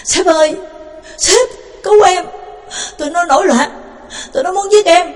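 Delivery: put-on old jailer begging the warden to save him; desperate cry for help. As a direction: scream to the boss for rescue. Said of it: "Quái già la lên".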